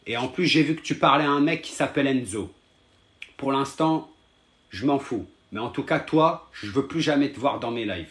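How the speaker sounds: real irritated, firm warning; annoyed. Real, not acted. Streamer threatening to block a viewer, annoyed. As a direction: lay down the limit to a pest, insistently. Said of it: "Regarde, là, je suis énervé".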